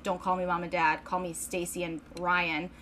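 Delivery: mildly cold, matter-of-fact role-play; cold rich parent. Acted. Rich parents disillusioning a small child, lightly acted coldness. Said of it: "really fucking cold and weird".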